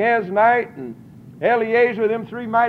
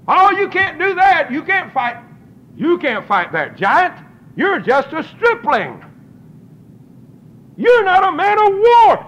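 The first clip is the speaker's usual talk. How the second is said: mocking naysayers; 8 semitones higher, 4 dB louder than usual. Mocking doubters quoted.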